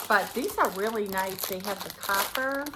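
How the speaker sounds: talking while crunching a snack. Real, not acted. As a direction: mouth full of crunchy food. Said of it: "Sorry, I'm crunching".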